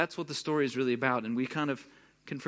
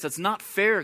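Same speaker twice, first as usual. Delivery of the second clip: mildly raised, hurt protest; aggrieved protest; 5 semitones higher, 5 dB louder than usual. Retold or imitated. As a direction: push back a little, like it's unjust. Brother's complaint, first take.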